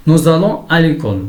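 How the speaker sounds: careful dictation pace, pitch lifted; example read-out. Shown as a demonstration. Teacher reads example sentence aloud.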